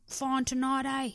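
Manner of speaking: lightly voiced Essex lad; mock Essex accent, casual chat; Essex dude accent. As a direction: imitate an Essex pub lad. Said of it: "Only Way is Essex type dude".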